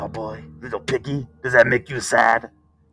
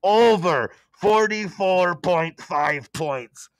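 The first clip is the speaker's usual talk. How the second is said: high, loud and pleased; excited; 7 semitones higher, 6 dB louder than usual. Real, not acted. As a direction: cheer him on for learning. Excited praise of pick.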